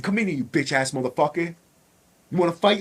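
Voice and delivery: softly voiced, hushed taunt; imitated whisper. Inmate secretly challenging a rival to fight, imitated whisper. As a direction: call him out under your breath. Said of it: "And I'm whispering".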